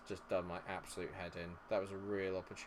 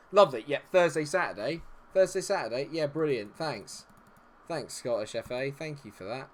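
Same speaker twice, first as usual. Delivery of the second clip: sarcastic thanks; 4 semitones higher, 7 dB louder than usual. Real, not acted. Sarcastic thanks for fixture pile-up.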